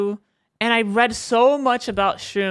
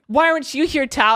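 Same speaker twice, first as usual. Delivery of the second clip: higher, pleading call to a friend; desperate plea; 5 semitones higher, 4 dB louder than usual. Retold or imitated. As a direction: beg the friend to be there.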